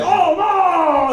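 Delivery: high, drawn-out mock dismay; hammed-up high wail of horror; mock shock. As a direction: imitate a scandalized crowd. Mimics shocked Southern audience reacting.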